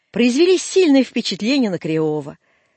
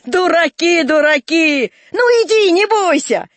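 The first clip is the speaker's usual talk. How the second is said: high, raised teasing voice; chuckling old man; 6 semitones higher, 5 dB louder than usual. Acted. Old man teases the scared boys, chuckling old man. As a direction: jeer good-humouredly, then urge them on. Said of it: "похатывался старик".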